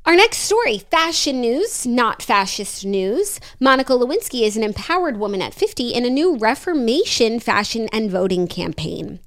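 podcast host reading out a headline; deliberate, scripted entertainment-news delivery; news story read. Acted. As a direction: read the copy like a presenter. Reads the next news story aloud.

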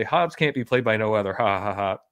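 quick, casual quote with a spoken fake laugh; mock laughing dismissal. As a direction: toss it off as a joke. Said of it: "to kind of laugh and say".

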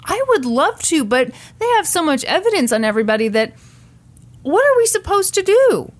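high, pleading, helpless excuse; whiny excuse. Retold or imitated. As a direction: play the helpless dad. Imitating Scott's excuse.

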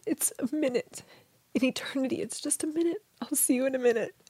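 soft, half-whispered reassurance; hushed comfort. Retold or imitated. Husband reassuring her eternity is short, hushed. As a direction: hush it gently, like soothing someone.

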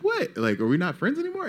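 high hammed-up hurt surprise; mock shock. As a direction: act betrayed, high and quick. Mock-hurt reply retold.

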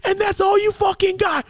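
very high, strained jeering shout; mocking taunt. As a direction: jeer as if the fear just vanished. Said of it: "I was laughing like".

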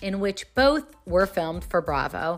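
punchy, scripted show-opener delivery; polished host reading the teaser; podcast intro read. Acted. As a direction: announce the episode rundown with emphasis.

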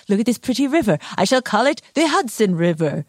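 lightly voiced grand explorer proclaiming; a hint of a pompous explorer naming a river; Henry Hudson impression. Host plays Henry Hudson claiming the river, mildly grand. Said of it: "That was a very good Henry Hudson impression".

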